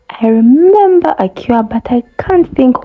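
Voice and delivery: high, excited recollection; light up with a sudden memory; sudden idea. A narrator's reading. Elephant suddenly remembers.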